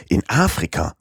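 In Afrika? repeated as a doubting question, Afrika lifted in surprise; incredulous repeat. Acted. Passepartout echoes Fix in disbelief, surprised question. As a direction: echo In Afrika? as if you can't believe it. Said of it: "wiederholte Passepartout".

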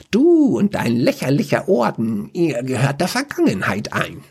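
high, gloating villain taunt; black mage gloats over his finished ritual; smirking taunt. Acted. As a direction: sneer down at the little acolyte. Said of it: "Er feixte".

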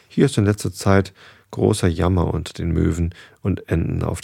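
measured read-aloud storytelling voice; story narration. Acted. Narrator reads a goose tale to listeners, story narration.

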